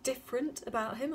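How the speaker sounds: anxious question, starting high; high, eager mother's question; asked quickly. A narrator's reading. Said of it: "asked Ma quickly".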